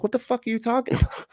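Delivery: incredulous. Real, not acted. Incredulous outburst.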